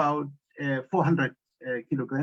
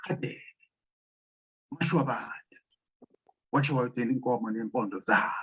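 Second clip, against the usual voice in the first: ancestral invocation; 4 semitones lower, 3 dB quieter than usual. Acted. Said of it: "making the invocation, uh, of the ancestors".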